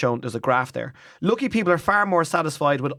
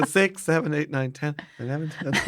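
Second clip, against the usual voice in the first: laughing while counting; 4 dB quieter than usual. Shown as a demonstration. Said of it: "I use my fingers and my nose".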